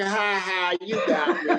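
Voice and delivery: high, playful mock laugh; retold laughing. Retelling how he laughed at first.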